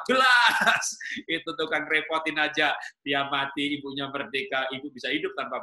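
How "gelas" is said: loud, high barked demand; mock husband shouting an order; imitated yell. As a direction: bark it like a husband yelling for his plate. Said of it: "Ambil gelas teriak".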